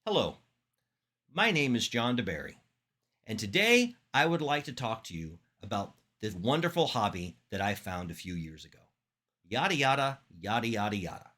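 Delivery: measured, steady speech-opening demo; paced public-speaking introduction with clear pauses; good speaking rate. Shown as a demonstration. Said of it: "Good rate, right?".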